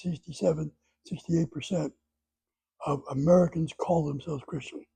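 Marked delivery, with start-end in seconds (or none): 2.9-4.8 "call" given a little extra emphasis; stress on call. Real, not acted. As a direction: lean on the word "call". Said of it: "emphasize the word call".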